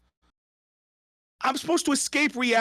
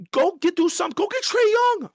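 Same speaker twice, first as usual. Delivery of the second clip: angry demand; 11 semitones higher, 4 dB louder than usual. Real, not acted. Ranting, demanding the Bulls act.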